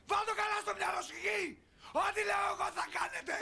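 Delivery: shouted final order; angry command. Acted. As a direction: shout the rule down. Mother laying down the law.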